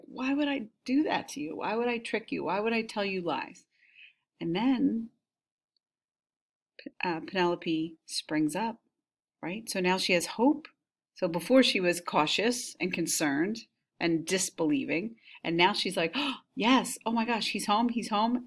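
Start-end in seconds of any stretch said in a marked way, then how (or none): 0.1-3.6 higher, softer pleading questions; pleading nurse. Retold or imitated. Teacher voicing the old nurse begging Penelope, lightly pleading. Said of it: "Eurycleia pleads with her". 16.2-18.4 excited. Retold or imitated. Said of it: "and she's excited".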